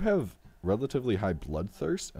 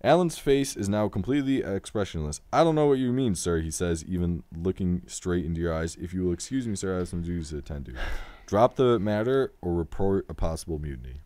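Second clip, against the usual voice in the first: clear, lively read-aloud with voiced dialogue; story narration; 3 dB louder than usual. A narrator's reading. Game host reading Alan's reply to the player, story narration. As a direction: narrate Alan's denial with projection.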